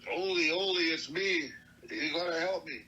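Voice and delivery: high, loud cry for help; desperate calling out. Retold or imitated. A freezing relative begs Ole for help at night, desperate calling out. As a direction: call through a door, high and urgent.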